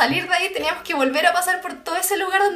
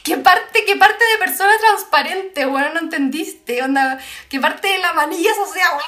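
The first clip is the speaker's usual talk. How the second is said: exasperated; 2 semitones higher, 5 dB louder than usual. Retold or imitated. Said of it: "Y nosotras como".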